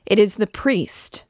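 put-on the girl shrinks from her tormentor, horrified; horrified recognition. A narrator's reading. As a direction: recoil from him in terror. Girl recognizes priest in horror.

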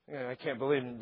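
usual speaking voice

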